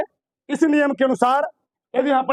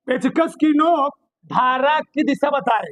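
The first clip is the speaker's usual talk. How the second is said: पेचकस की नोक धारा की दिशा बताए said slowly; slow dictation. Shown as a demonstration. Teacher dictating the rule slowly to students. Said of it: "बहुत ध्यान से सुनना".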